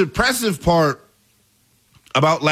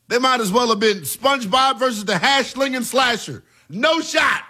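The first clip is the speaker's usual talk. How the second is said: shouting; 5 semitones higher than usual. Real, not acted. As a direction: yell it out, scoffing at the experts. Mocking the experts loudly.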